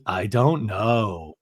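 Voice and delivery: low, drawn-out answer; mildly hammed-up evasive impression; Lisa. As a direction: stretch it out slowly and low. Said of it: "And Lisa goes".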